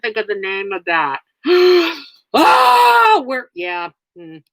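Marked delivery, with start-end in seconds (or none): 1.4-2.0 sharp gasp. Real, not acted. Reacting to something shocking on stream. 2.3-3.2 loud, high, startled cry of oh; shocked shout. Real, not acted. Streamer reacts to a viewer's shocking clip, loud startled shout.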